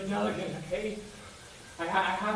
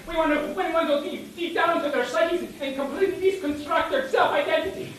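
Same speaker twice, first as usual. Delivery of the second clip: hyped shout; 7 semitones higher, 5 dB louder than usual. Acted. Teammate overhyped pep talk.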